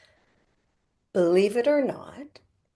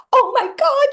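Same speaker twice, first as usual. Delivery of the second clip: much higher and louder, giddy; jubilant squeal; 10 dB louder than usual. Acted. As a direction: squeal it with delight. Spirit telling everybody, jubilant.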